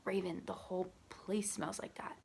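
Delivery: imitating a friend's whispered bad news; hushed whisper.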